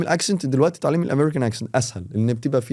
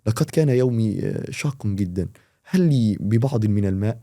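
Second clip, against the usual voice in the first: lightly voiced formal Standard Arabic, a touch lower; 3 semitones lower than usual. Shown as a demonstration. Teacher showing formal Standard Arabic to a student. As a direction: recite it like stiff classical Arabic. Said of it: "الستاندر ما هي إلا اللغة الرسمية".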